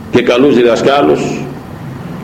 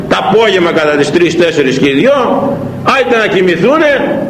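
normal talking voice

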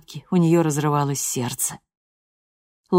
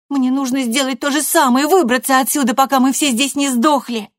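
much higher and louder, near shouting; furious threat; 10 semitones higher, 6 dB louder than usual. A narrator's reading. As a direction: threaten her mother at full pitch. Loredo threatens to leave.

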